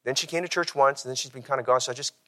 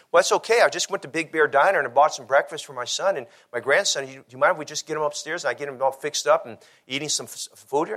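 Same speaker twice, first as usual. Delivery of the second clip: a pitched-up imitation of the old lady, a little louder; old lady's voice; 4 semitones higher, 3 dB louder than usual. Pastor voicing the lady with her grandson, lightly pitched up. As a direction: raise the voice lightly to play the grandmother.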